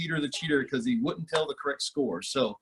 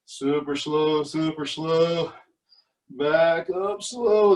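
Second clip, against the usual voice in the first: slow; much slower than usual. Shown as a demonstration.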